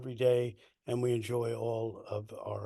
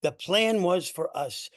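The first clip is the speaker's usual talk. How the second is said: emphatic, projected spoken-word storytelling; poetry reading. Acted. Poet reading their poem to an audience, emphatic poetry-reading delivery. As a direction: read it out in measured phrases, punching key words. Reads second poem aloud.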